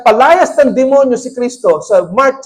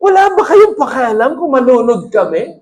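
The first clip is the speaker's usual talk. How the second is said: mock indignant question; 2 semitones higher than usual. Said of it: "Anong klaseng tanong yun".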